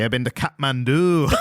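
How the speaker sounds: joking attempt at a Scottish accent; mock Scottish accent. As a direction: join in with a put-on Scottish lilt. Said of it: "I can't do a Scottish accent".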